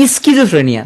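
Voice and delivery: স্কিজোফ্রেনিয়া sounded as is-ki-jo-fre-ni-a; spelling pronunciation. Shown as a demonstration. Teacher fixing a spelling in memory, spelled-out pronunciation of স্কিজোফ্রেনিয়া. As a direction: say স্কিজোফ্রেনিয়া with every written sound, hard sk. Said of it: "তাহলে উচ্চারণ করবা কিভাবে?".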